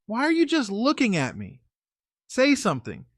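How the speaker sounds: high, puzzled voice; girlfriend voice. Retold or imitated. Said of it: "She's like".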